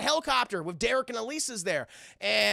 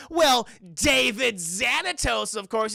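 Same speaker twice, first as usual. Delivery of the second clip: mock announcement; 2 semitones higher, 5 dB louder, much slower than usual. Shop clerk voiced in retelling.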